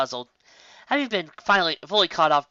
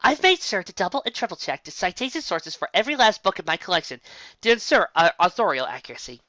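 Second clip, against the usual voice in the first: chipper tone; 5 semitones higher than usual. Acted. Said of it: "proceeded in a chipper tone".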